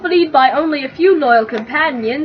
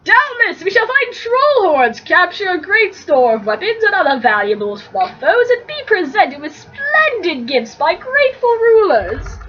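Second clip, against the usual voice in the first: grand boasting; 5 semitones higher than usual. Acted. Frodo boasting to Sam.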